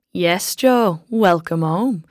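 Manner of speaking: a lightly voiced mocking welcome; sniggering greeting. Old bar-stool tormentor greeting returning Joe, mild sneer. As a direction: say it with a snide hint of a snigger. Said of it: "turning the greeting to a snigger".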